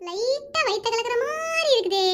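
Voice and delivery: slow, drawn-out queasy complaint; slow uneasy moan; queasy groan. Acted. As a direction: stretch the words as the stomach starts churning. Stomach upset after suspect juice.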